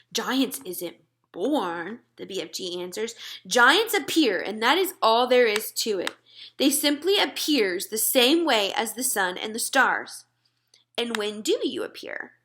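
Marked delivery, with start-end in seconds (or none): 0.1-2.0 very slow, solemn giant voice. Acted. 3.4-10.3 put-on friendly giant talking to a little girl; BFG giant voice. BFG voice held. 11.0-12.3 soft unvoiced whisper; girl whispering to the giant. Whispered question.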